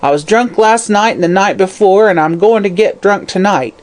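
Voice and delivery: a hag's suppressed malice; hateful crone. Acted. Hag defying the detective, full of malice. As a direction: spit it with hatred. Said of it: "hatred and suppressed malignity was her voice".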